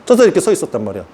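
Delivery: usual speaking voice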